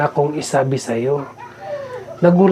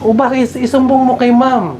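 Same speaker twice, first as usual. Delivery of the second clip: put-on higher and louder, pressing the child to report; urgent question; 12 semitones higher, 5 dB louder than usual. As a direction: urge her to tell the teacher, voice raised high. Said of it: "Sabi ko". (mataas at malakas na pagtatanong)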